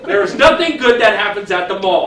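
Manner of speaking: loud, laughing overstatement; laughing joke. Real, not acted. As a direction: ham up the mall as evil while laughing. Joking about the mall.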